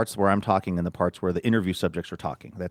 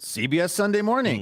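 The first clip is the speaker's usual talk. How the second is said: quoting the couple; 11 semitones higher than usual. Retold or imitated. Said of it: "And they went".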